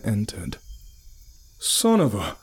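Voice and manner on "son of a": yelled. A narrator's reading. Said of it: "yelled Deline".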